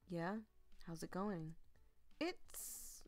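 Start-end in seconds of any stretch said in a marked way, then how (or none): 2.2-3.0 sheepish whisper; hushed admission. Acted. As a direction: mumble it out embarrassed. Sheepish reply about slow work.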